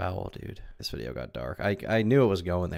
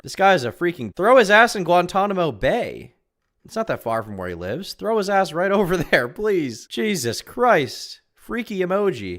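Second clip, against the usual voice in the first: outraged; 10 semitones higher, 7 dB louder than usual. Real, not acted. Outraged rant.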